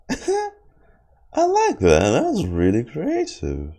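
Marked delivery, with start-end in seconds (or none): 0.1-1.8 delighted laugh. Real, not acted. Delighted by the trailer line.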